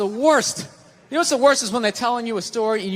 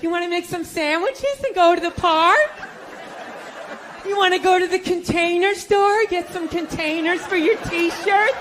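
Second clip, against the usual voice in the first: put-on eager girlfriend; 5 semitones higher than usual. Girlfriend voiced proposing ideas.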